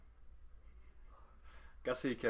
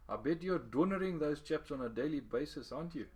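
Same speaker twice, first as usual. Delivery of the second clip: a hint of a higher, earnest old man; lightly voiced old fisherman; 6 semitones higher than usual. A narrator's reading. Old fisherman Gussie lecturing the boy, lightly voiced higher. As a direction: gently voice the wise fisherman, a touch higher.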